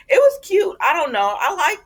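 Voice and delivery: loud high gush. Real, not acted. Vlogger gushing to fans about the couple, loud squeal. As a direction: squeal it out, delighted.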